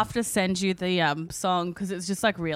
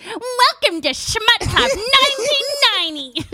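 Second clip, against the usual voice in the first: sexy voice; 7 dB louder than usual. Shown as a demonstration. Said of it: "this was the voice I was gonna use".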